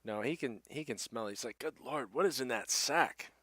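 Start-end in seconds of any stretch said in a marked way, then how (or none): 1.6-3.3 mildly appalled, pitched up; appalled innkeeper. Acted. Innkeeper smells the rank sack, mildly appalled. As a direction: react to a stink with raised-pitch dismay.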